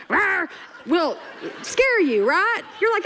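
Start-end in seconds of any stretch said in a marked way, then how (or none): 0.1-0.5 small playful mock roar; half-scary little rawr; little kid's roar. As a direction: roar like a tiny would-be monster. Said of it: "coming out saying".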